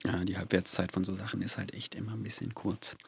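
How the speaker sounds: mumbling too softly; too quiet. Real, not acted. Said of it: "Du musst lauter sprechen".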